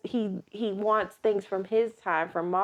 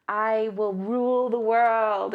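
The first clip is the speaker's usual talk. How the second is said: slow, grand villain queen; lightly voiced evil queen; slower than usual. Villain using mind control.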